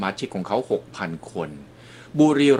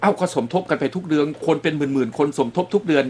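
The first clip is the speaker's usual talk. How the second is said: voicing members' doubts in a higher pitch; mildly incredulous, raised-pitch imitation of questioning members; puzzled, suspicious questioning; 5 semitones higher than usual. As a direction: ask as a puzzled member would. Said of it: "เขาก็สงสัยว่า".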